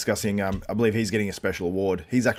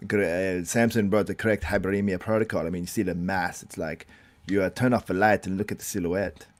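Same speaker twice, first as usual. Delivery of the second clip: put-on accented coach voice; lightly voiced foreign coach impression; Milos. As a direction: imitate a bodybuilding coach explaining his protocol. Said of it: "doing a Milos impersonation".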